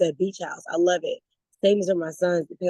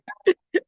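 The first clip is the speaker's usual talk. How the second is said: high laugh; 4 dB louder than usual. Real, not acted. Laughing at her own nephew story. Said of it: "I'm laughing and joking".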